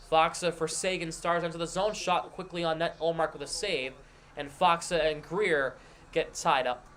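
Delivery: brisk hockey play-by-play call; live play-by-play. Acted. Streamer sets up the Bruins game for chat in live play-by-play. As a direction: call the action as it happens.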